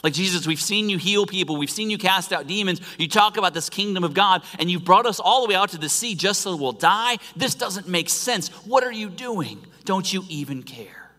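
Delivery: like panicked men shaking someone awake; frantic disciples. Acted. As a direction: disciples in the boat, frantic and accusing. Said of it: "in their own sarcastic way".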